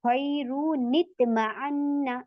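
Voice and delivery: slow chanted recitation with a falling close; Quranic recitation. Shown as a demonstration. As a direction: draw the words out as in tajweed. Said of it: "तो हम इसे simple पढ़ेंगे".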